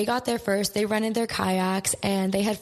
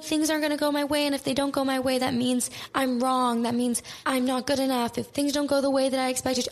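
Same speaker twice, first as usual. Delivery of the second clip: higher-pitched mock panicky spiral; retold panic; 6 semitones higher than usual. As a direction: imitate yourself freaking out, voice pitched up. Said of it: "I'd have panic attacks".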